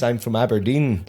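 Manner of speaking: slow, soft, careful posh Aberdeen voice; imitating a posh Aberdonian, every sound clear; mock posh Aberdeen enunciation. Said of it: "they just talk like this".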